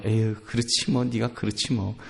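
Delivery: low, soft disappointed muttering; quiet acted maternal disappointment; hurt, resigned mother. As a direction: sigh it out, having given up on the child. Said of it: "엄마 마음이 상하겠죠".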